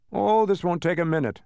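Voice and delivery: reassuring. Acted. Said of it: "the man assured them".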